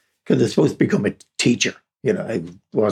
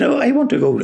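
put-on high eager boyish plea; a son begging his father, pitched up; pleading boy; 13 semitones higher, faster than usual. Son asking his father for a job, high and eager.

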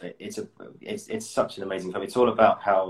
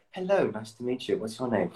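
higher, put-on polite hello; audition greeting; 3 semitones higher than usual. Imagined panel meets the auditionee, polite put-on greeting. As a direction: switch into a formal greeting. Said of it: "then the, the auditionee will come in".

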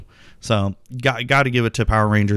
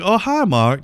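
light imitation, higher with a lilt; quoted movie meme; 9 semitones higher than usual. Podcaster quoting a famous bad-movie joke, lightly imitated. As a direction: toss out a high-pitched meme impression. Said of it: "long-running meme and joke".

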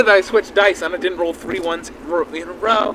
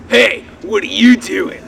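distant voice; 2 semitones higher, 5 dB louder, slower than usual. Acted. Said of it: "You hear from somewhere behind you".

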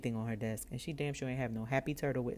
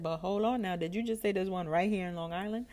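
higher, questioning echo with rising end; intrigued double-check; 4 semitones higher than usual. Retold or imitated. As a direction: check eagerly what was just said. Repeats clerk's words in disbelief.

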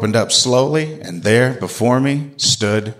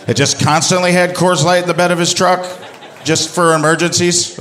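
higher, laughing through the words; 8 semitones higher than usual. Real, not acted. Comedian tells the crowd about the beer, laughing through it. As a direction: crack up while describing him.

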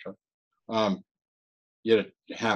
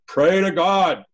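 higher and louder, firm command; real strong; 7 semitones higher, 6 dB louder, slower than usual. Retold or imitated. The inner voice urging him to pray, real strong. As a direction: insist hard, like a voice that won't be ignored. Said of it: "real strong".

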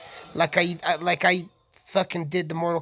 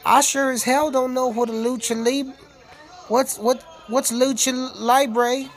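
urban cowboy voice; 5 semitones higher than usual. Shown as a demonstration. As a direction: show off the new cowboy voice. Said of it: "my new urban cowboy voice".

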